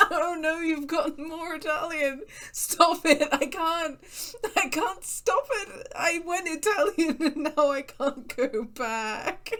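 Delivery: stuck in an over-the-top Italian voice, laughing at it; bad Italian accent. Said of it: "So this is a bad accent stream".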